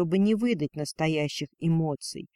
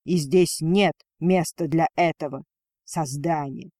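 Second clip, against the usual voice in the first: usual speaking voice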